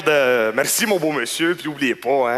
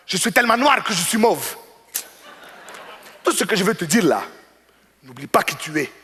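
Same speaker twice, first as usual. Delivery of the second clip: preachy customer. Retold or imitated. Customer's parting speech.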